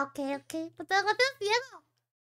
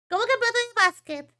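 indignant repeat; 5 semitones higher than usual. Real, not acted. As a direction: repeat it in mock outrage.

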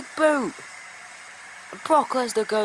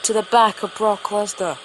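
screaming shock; 10 dB louder than usual. Real, not acted. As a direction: erupt at the surprise attack. Surprise chair attack after match.

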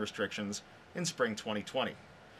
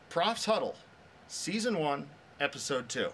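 winner reveal; 2 semitones higher than usual. Real, not acted. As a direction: proclaim "Prof's Huddle" as the winner, lifting "Huddle". Announcing the award winner.

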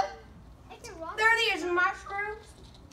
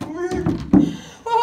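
slow, stretched, a bit louder; drawn out slowly; 4 dB louder than usual. Shown as a demonstration. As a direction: stretch each word out for effect. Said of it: "like this".

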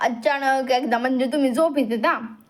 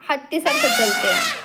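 put-on child's voice. Child voiced, walking like elephant.

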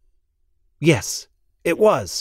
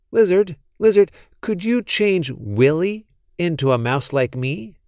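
calling out; 4 semitones higher than usual. Acted. Calling the lizard.

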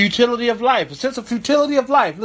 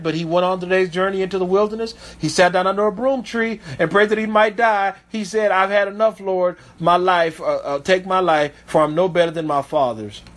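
scripture reading; 2 semitones lower than usual. Acted. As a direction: read the verse with weight. Reads scripture aloud.

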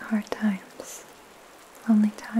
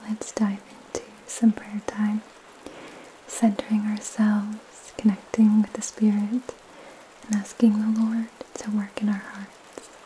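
soothing spa whisper. Real, not acted. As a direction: whisper softly to calm the listener. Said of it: "in a soft spoken voice".

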